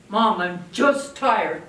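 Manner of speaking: drawn-out tired whine; slow whiny teen. Retold or imitated. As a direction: sound put-upon and weary. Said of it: "Kathleen speaking".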